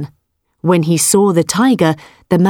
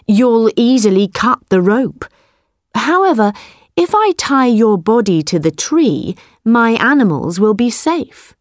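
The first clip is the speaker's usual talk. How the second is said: higher, bright sly voice; quick-thinking farmer; 4 semitones higher than usual. Acted. Farmer fools the tiger, higher and sly. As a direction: talk him round with a cunning smile. Man insists on tying body.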